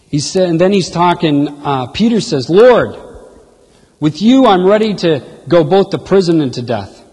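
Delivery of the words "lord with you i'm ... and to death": Peter's proud vow, louder and ringing. Retold or imitated. Peter vowing to Jesus he'll die for him, louder and proud. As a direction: swear it with puffed-up pride.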